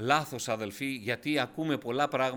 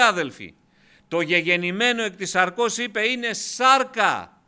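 raised voice, key words stretched out; forceful, high-pitched sermon climax; emphatic preaching; 5 semitones higher, 6 dB louder than usual. Real, not acted. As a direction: hammer the doctrine home to the congregation.

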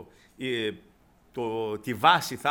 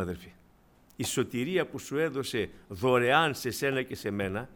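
ordinary talk

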